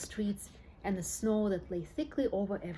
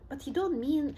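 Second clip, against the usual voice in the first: alarmed shout; 6 semitones higher than usual. Acted. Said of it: "shouted Grandpa Joe".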